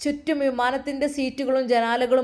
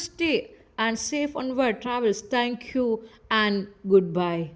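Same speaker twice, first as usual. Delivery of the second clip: slow, sweet cabin announcement; air hostess announcement; 2 semitones lower, much slower than usual. Acted. Air hostess thanking passengers after landing, slow sweet announcer voice. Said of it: "ഹെയർ ഹോസ്റ്റസിൻ്റെ മധുരമുള്ള ശബ്ദം".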